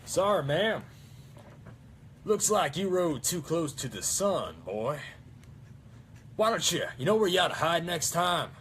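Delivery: quoting a game character's taunt; engineer voice line. Retold or imitated. Quoting TF2 engineer voice lines.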